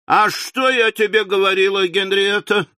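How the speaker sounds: high, aggrieved appeal to her daughter; deeply offended woman. Acted. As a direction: play the wronged wife. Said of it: "тоном глубоко оскорблённой женщины".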